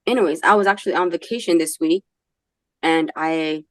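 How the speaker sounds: sore throat rasp; hoarse from a sore throat; raspy voice. Real, not acted. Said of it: "so I sound very raspy".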